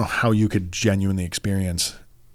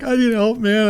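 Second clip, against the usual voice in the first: mock desperate plea; 13 semitones higher than usual. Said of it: "bawling my eyes out".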